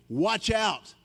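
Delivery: drawn out, slow warning; slowly spelled-out caution. Shown as a demonstration. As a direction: stretch watch out as a warning. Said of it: "That's a warning".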